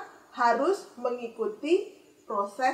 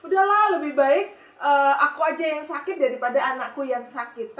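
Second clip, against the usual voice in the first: mother's anguished wish; 3 dB louder than usual. Acted. Mother thinks, wishes she were sick.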